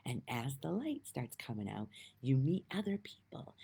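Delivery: whispered. Real, not acted. Soft spiritual talk.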